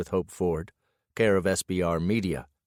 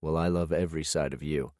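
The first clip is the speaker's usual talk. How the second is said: softer, low grunted reply; 3 semitones lower, 4 dB quieter than usual. Acted. Husband answering his wife on the phone with a low grunt. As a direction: grunt it out, holding the phone tight. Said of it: "grip the phone tighter and grunt".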